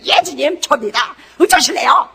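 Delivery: yes Lord but with a grudging edge; defiant even when annoyed. Shown as a demonstration. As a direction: say it like you're fed up but still obey. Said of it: "이래야 돼. 화가 나도". (화가 나도 "예, 주님" 하는 투덜대는 말투)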